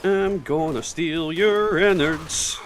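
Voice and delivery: slow, drawn-out playful menace; mock villain. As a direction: threaten like a cartoon villain. Menacing game roleplay line.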